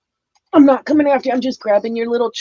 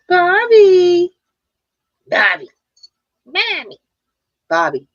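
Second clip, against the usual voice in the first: calling out; 8 semitones higher, 7 dB louder than usual. Real, not acted. Calling the cat loudly.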